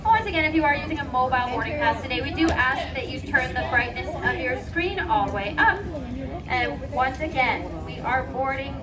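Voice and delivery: airport announcement. Real, not acted. Gate boarding announcement.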